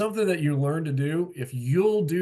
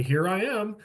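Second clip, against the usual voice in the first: self-important; 7 semitones higher than usual. Retold or imitated. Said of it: "walk into the room and they say".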